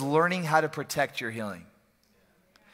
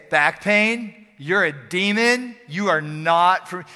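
1 rebuking the demon; 4 dB louder, slower than usual. Retold or imitated. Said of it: "You say".

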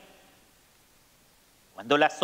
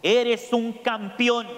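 father's call; 4 semitones higher, much slower than usual. Acted. Father calling praise to the mountain, slow call. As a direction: draw each word out across the valley. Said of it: "el hombre grita".

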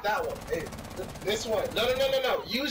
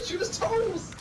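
higher, more frantic yell; higher frantic shout; 13 semitones higher, slower than usual. Real, not acted. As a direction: shriek the order in panic. Teammates yelling in firefight.

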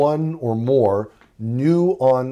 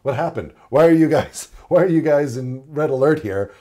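puzzled students; 2 semitones higher, 5 dB louder than usual. Acted. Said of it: "the students, they're going".

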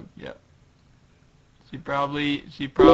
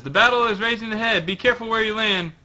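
lightly acted character warning, a bit higher; raised comic-book dialogue voice; Robin's warning; 6 semitones higher, faster than usual. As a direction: read it as a mild battle warning. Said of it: "And Robin says".

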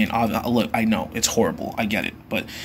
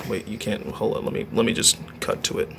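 whispered aside; 6 dB quieter than usual. Real, not acted.

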